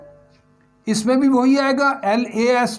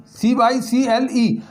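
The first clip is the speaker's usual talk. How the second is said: each letter said slowly and clearly; slow spelling; slower than usual. Shown as a demonstration. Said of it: "spelling out cycle again".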